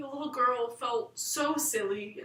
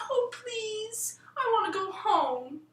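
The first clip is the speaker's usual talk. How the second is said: tearful, higher whispered begging; crying plea; 9 semitones higher, slower than usual. A narrator's reading. The little girl begs the Fly-By-Night, crying. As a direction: plead through tears to go home. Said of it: "started to cry and said".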